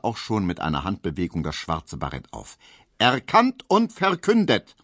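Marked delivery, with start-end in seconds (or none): 3.0-4.7 higher, slow, loud and weighty; grave solemn verdict. A narrator's reading. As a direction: pronounce it with full judicial dignity. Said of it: "mit so viel Ernst und Würde".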